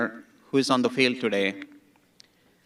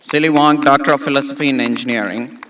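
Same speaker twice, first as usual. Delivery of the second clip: projected, louder ceremonial call of the name; loud formal announcing to the crowd; loud name announcement; 5 dB louder than usual. Real, not acted. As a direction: call the graduate's name out to the hall.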